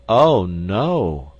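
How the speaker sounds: a loud, aggrieved wife's refusal; martyred wife. Acted. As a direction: exclaim it as a long-suffering wife. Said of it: "in that plaintive voice".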